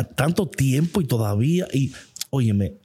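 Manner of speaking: usual speaking voice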